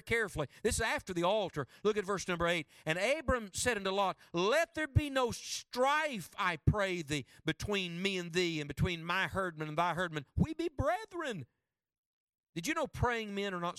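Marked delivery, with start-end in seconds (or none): 2.8-11.5 solemn King James reading, stretched and lifted on key lines; scripture reading. Acted. Preacher reads Abram's plea to Lot, solemn and drawn out. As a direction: read the verse as Abram's plea.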